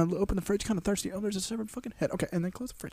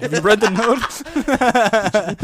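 mock frantic question; 4 semitones higher, 4 dB louder, much slower than usual. Husband in grinder asks.

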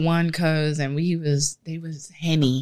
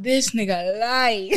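laughing disbelief; 5 semitones higher than usual. Retold or imitated. Aside about fake cousin.

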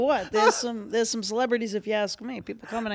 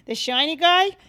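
put-on little girl quote; 6 dB louder than usual. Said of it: "it starts young".

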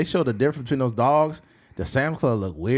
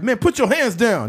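high, louder command; soldier's command; 10 semitones higher, 3 dB louder than usual. Pretend. Black soldier ordering the German, hammed-up command. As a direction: order him to drop it.

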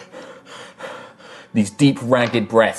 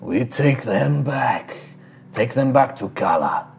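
tattooed shaman; 3 dB quieter than usual. Acted. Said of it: "And he's just like".

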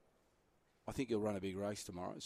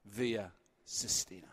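race caller voice. Shown as a demonstration. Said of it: "race caller voice".

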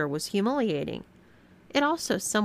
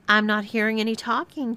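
scolding, a little raised; chiding; 3 semitones higher than usual. Acted. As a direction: prod her like a strict teacher. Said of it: "chided Wendy".

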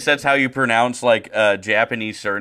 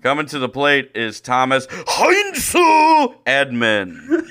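mock announcer. Mocking a broadcaster announcing Tommy Edman, mock announcer. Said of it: "Tommy Edman is like".

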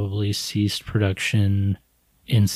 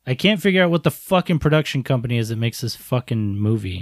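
loud sharp voice; faster than usual. Real, not acted. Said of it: "Why are you yelling at me?".

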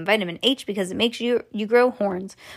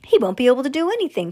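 fast, higher protest; distressed cry; 4 semitones higher, 4 dB louder, faster than usual. Acted. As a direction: rush it out in mild distress. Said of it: "cried Missus T V".

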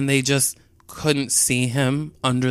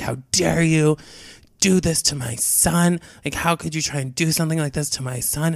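higher-pitched mock outrage; mild retold scolding, pitched up; retold angry dad; 4 semitones higher than usual. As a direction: imitate an indignant father without really yelling. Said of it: "his dad starts screaming at me".

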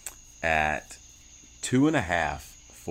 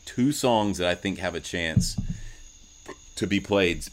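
talking around a sip of beer; drinking beer. Real, not acted. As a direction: speak just after a swallow of beer. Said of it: "pardon me, I'm drinking beer".

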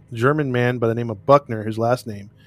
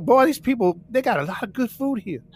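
mock lazy cop; 9 semitones higher than usual.

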